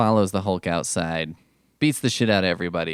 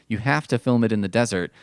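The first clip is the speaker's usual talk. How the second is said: normal talking voice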